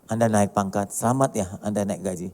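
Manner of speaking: kind, generous well-wishing to a colleague; gracious congratulations. Acted. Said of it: "kita tetap salam".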